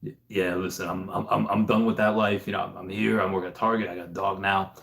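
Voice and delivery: low, quiet tough-guy gruffness; a hint of a weary retired soldier; gruff voice. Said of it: "talk in, like, a real gruff voice".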